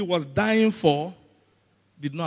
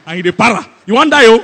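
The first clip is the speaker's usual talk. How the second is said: loud, amused mock hype; hammed-up laughing exclamation; laughing tease; 4 semitones higher, 15 dB louder, faster than usual. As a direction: tease him at full voice, breaking into laughter. Mocks a hailed man showing off.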